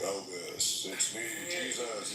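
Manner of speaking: mock divine voice; slow, drawn-out holy apparition, hammed up; Jesus. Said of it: "It wasn't like that".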